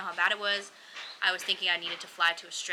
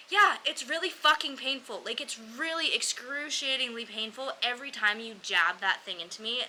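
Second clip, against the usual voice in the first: higher, emphatic mock outburst; exasperated retort; 4 semitones higher than usual. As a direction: vent the pain at the doctor. Retorts to doctor prodding her.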